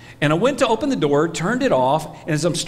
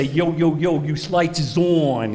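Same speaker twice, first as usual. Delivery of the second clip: put-on New Jersey accent; slower than usual. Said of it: "buy it in New Jersey".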